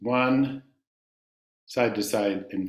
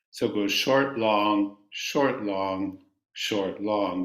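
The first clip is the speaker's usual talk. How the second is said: short, long, short, long said as alternating durations; short long rhythm; 2 semitones lower, slower than usual. Shown as a demonstration. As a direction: mark short and long beats. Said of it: "a short sound and a long sound".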